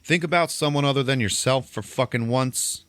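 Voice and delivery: lightly acted mean street-corner telling-off; mean scolding. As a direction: badger a stranger, pitch lifted. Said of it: "being mean to everybody walking by".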